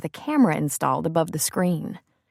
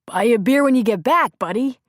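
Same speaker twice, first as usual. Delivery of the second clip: smiling; 5 semitones higher, 5 dB louder than usual. A narrator's reading. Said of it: "Mike smiled".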